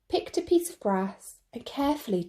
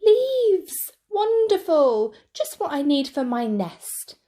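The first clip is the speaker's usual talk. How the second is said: much higher, louder squeaky squirrel delight; a squirrel thrilled at a treasure; excited squirrel; 7 semitones higher, 6 dB louder than usual. Acted. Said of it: "said a squirrel".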